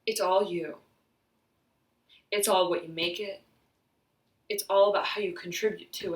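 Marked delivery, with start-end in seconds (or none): none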